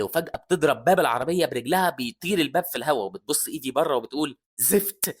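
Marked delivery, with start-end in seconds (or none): 4.6-5.2 raised, high-pitched alarm; rally everyone before the crash; urgent warning. Acted. Warning team of imminent crash.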